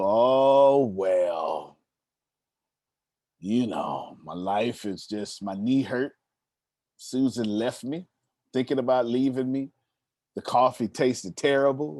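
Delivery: a hint of a mopey, sighing complainer; whiny complainer. A friend asked how he's doing, answering with a lightly mopey whine. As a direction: lightly act out the self-pitying moan. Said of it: "Y'all know these kind of people?".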